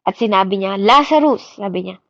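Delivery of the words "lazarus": a loud commanding call of the name. Retold or imitated. Jesus raising Lazarus, loud decisive call of authority. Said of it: "yung pag-iyak niya ng malakas".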